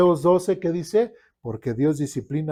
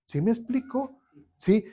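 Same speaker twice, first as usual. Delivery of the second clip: normal talking voice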